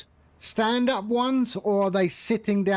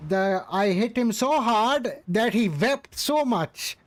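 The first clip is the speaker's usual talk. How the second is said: put-on Indian accent. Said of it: "Yes, that is my Indian accent".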